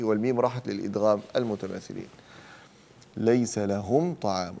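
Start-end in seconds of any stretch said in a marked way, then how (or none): 3.2-4.5 slow ليس لهم طعام with a crisp m; clear labial meem. Shown as a demonstration. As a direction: close cleanly on the m of لهم, then طعام. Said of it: "الإظهار الشفوي".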